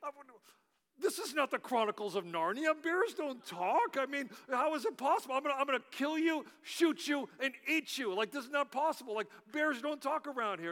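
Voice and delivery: unnerved trapper. Acted. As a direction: act a touch rattled by a talking bear. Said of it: "this unnerved the trapper".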